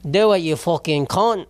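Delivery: lightly put-on Australian accent, drawn out; slow, drunken goading in a rough Australian accent. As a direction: do a loose amateur Australian accent. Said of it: "I have to be an Australian accent".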